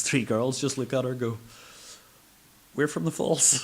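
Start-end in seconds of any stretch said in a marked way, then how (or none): 2.8-3.6 loud, high, pointed comeback; loud retort. Retold or imitated. Girls firing back loudly at the cleaner who insulted them. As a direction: fire it back at her, higher and louder.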